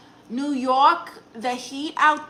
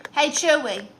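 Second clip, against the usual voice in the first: bright call, higher than usual; calling the dog; 4 semitones higher, 4 dB louder than usual. Pretend. Streamer calls her dog to test him, calling out. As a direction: call out sweetly to get the dog's attention.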